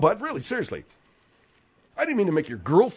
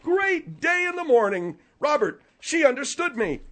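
high, crowing mock amazement; hammed-up sarcastic celebration; 8 semitones higher than usual. Host crows that Margaret understood him, sarcastic. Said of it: "when you are sarcastic".

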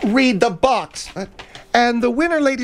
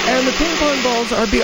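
play-by-play. Acted. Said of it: "I'm doing the play-by-play".

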